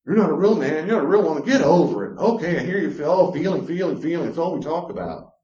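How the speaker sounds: high, loud sneering taunt; mocking taunt. A spouse mocking a partner for having feelings, loud sneer. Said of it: "making fun of them".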